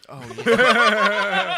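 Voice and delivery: loud high laugh; laughing burst. Real, not acted. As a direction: blurt it out laughing.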